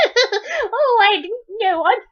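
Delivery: high-voiced, meek little girl, amused underneath; humble apology. A narrator's reading. Polly apologises to the tearful boy, humbly. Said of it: "Polly said humbly".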